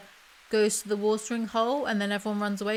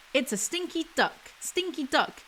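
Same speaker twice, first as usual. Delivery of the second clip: lilting, higher chanted taunt with stretched moos; sing-song reading; 4 semitones higher than usual. A narrator's reading. Reader voices the cow mocking the duck, sing-song. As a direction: chant it like a nursery-book refrain. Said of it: "What is the cadence of this?".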